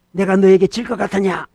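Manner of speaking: firm rhetorical challenge; defiant challenge. Acted. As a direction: face down the tempter boldly. Acted defiance of tempting devil.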